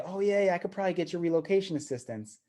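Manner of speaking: imitating an over-promising agent; glib promise. Agent glibly promising seller.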